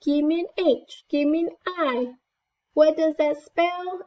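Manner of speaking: high, bouncy cheer chant; cheerleader. Shown as a demonstration. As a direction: cheer it out like a pep squad. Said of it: "like a cheerleader".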